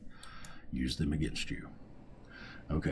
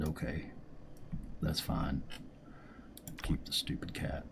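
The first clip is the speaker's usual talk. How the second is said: grudging surrender; 3 semitones lower, 9 dB quieter than usual. Retold or imitated. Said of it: "And I said".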